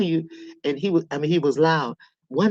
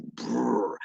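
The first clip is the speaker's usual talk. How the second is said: low, softer rumbling brr; imitated rumbling voice; 5 semitones lower, 8 dB quieter than usual. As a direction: mimic a thunderous voice as a rolled rumble. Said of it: "my daddy voice was like".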